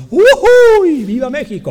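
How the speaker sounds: high, loud festive yell; whooping cheer, starting at full volume; celebratory whoop. Acted. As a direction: let out a jubilant Mexican-style cry. Mock celebration whoop at heavenly reward.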